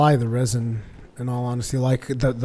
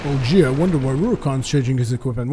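sarcastic mock wonder; 3 dB louder than usual. Sarcasm to viewers.

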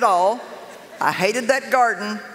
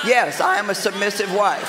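laughing declaration. Pretend. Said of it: "joking self-declaration".

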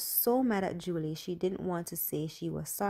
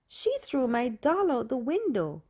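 mild scream; 5 semitones higher, 4 dB louder than usual. A narrator's reading. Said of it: "Julie screamed".

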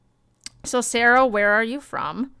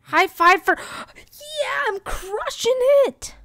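gasping and thrilled, much higher; excited; 13 semitones higher, 4 dB louder, slower than usual. Real, not acted. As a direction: squeal it out with glee. Celebrates a correct answer.

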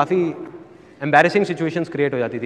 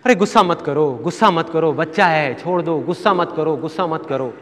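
soothing mother; 2 semitones lower than usual. Retold or imitated. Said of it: "कहती थी पापा को".

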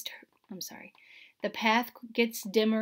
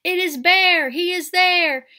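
much louder, higher squawk; squawking birds; 8 semitones higher, 12 dB louder than usual. A narrator's reading. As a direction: screech it in joy from the sky. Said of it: "all squawk from the sky".

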